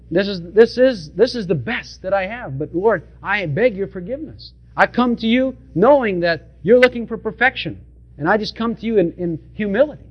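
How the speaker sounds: a hint of a meek son begging forgiveness; humble Abel. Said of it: "Abel came saying".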